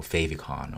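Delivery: "favicon" as FAY-vee-con; alternative pronunciation. Shown as a demonstration. Instructor offering another way to call it, "favicon" pronounced FAY-vee-con. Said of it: "whichever way you wanna call it".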